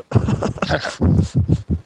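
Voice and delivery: breathy, voiceless chuckle; short, airy laugh to yourself. Real, not acted. Podcaster amused by his own remark, breathy chuckle. Amused after promising to listen himself.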